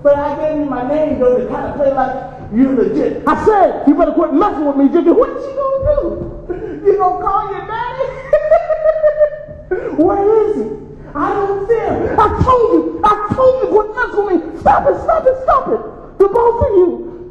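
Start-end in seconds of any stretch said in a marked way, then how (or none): 3.3-5.1 angry warning. Acted. Son snaps at taunting father. 5.1-14.6 mocking high laughter. Father mocks son, then mama intervenes. 14.6-17.3 shouting to break it up. Acted. Mother breaks up the fight.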